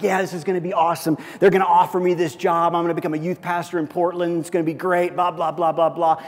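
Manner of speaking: excited. Retold or imitated. Pastor retelling his hopeful thoughts, excited and quick. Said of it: "I was excited".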